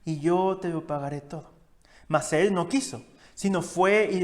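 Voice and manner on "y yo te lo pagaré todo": begging fellow servant. Acted. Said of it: "le rogaba diciendo".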